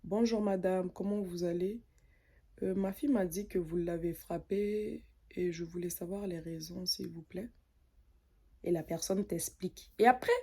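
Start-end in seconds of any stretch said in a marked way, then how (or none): 0.0-7.5 soft, polite, softer and softer; calm and polite. Shown as a demonstration. Showing how to calmly approach the other mother, soft and polite. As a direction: ask gently and respectfully. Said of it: "tu vas voir la personne tranquillement".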